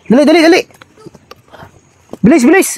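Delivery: urgent, high-pitched repeated calls; hurrying them up. Pretend. Leader hurrying companions through danger, urgent high call.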